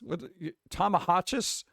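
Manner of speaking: reading a letter aloud. Acted. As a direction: read it out like a prim letter.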